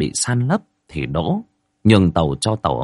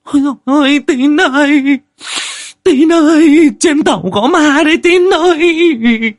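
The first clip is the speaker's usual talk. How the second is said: shrieking much higher and louder in a woman's panicked voice; terrified shriek; 8 dB louder than usual. Acted. Wife screaming to her husband Tín that there's a ghost, terrified shriek. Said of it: "cũng tỉnh dậy mà rú lên".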